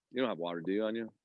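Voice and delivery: coughing with a bug in the throat; just swallowed a bug. Real, not acted. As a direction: ask through a tickly throat. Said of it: "Got a little bug".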